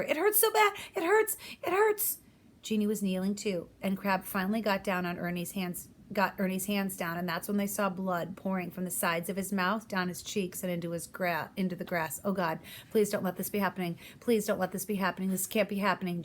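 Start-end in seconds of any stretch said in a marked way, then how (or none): 0.0-2.2 high, loud pained shouts; shouting. Acted. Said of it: "shouting over and over". 12.2-16.2 praying. Acted. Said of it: "Jeannie prayed".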